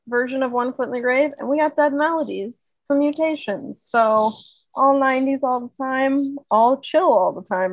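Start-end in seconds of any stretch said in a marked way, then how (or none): 4.7-7.7 laid-back radio DJ. Acted. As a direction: announce it like a late-night DJ. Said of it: "I really did sound like a radio D J there".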